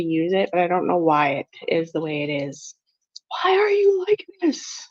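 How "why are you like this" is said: whispered aside to the stove; breathy, exasperated whisper. Real, not acted.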